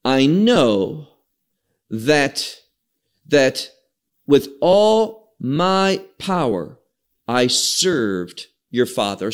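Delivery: slow, deliberate reading of the verse, each phrase set apart; slow scripture reading. Shown as a demonstration. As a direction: read the verse slowly with pauses. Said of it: "Look now to verse, verse six".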